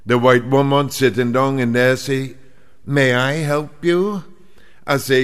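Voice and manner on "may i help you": polite clerk voice. Retold or imitated. Travel clerk greets customer.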